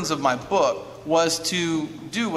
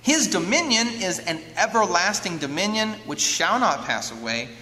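scripture reading. Acted. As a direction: read it as a solemn closing prophecy. Reads scripture aloud.

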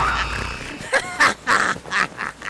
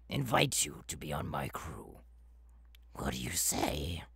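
soft lower secretive whisper; conspiratorial whisper; 12 semitones lower, 8 dB quieter than usual. Acted. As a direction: lean in and whisper it. Confiding invitation.

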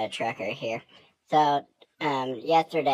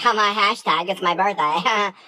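hint of giddy girl voice; 5 semitones higher, 6 dB louder than usual. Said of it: "and she's like".

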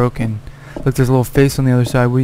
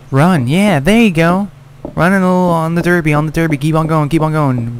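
excited urging; 4 semitones higher than usual. Real, not acted. Player cheering his character as she runs, excited urging. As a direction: egg her on as she runs.

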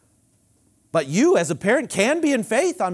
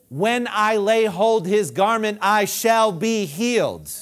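slow declaration; 4 semitones higher, 5 dB louder, slower than usual. Retold or imitated. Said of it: "She said out of her mouth".

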